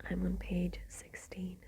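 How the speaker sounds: whispered storytelling, every word unvoiced; ASMR whisper. Real, not acted. Whispering Dracula aloud to listeners winding down, ASMR whisper. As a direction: read the book in a steady ASMR whisper. Whispered aside about progress.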